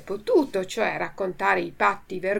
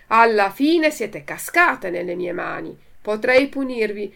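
true contentment; 6 dB louder than usual. Acted. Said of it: "con accento di vera contentezza".

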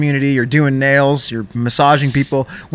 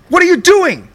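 much higher, exasperated mock yell; 13 semitones higher than usual. Agent yelling at the caller in exasperation. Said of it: "He's yelling at me".

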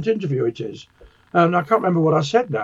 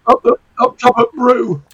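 put-on Lancashire accent; 6 semitones higher, 6 dB louder than usual. Trading northern banter.

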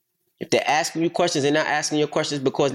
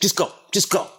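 mock dad yell; 7 semitones higher than usual. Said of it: "my dad's screaming".

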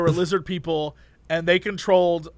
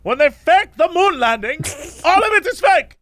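lightly voiced ranting cab driver, higher; 7 semitones higher than usual. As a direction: imitate the driver's conspiracy rant. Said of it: "He was like".

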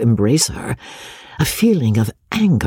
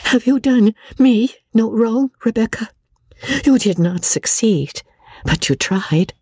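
spirited reproach; 7 semitones higher than usual. A narrator's reading. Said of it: "spoke with a spirit".

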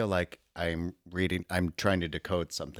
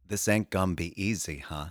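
dramatic reading. Pretend. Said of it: "brief dramatic reading".

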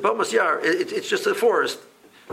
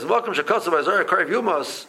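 laughing. Retold or imitated. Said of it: "Rabbi Kiva was laughing".

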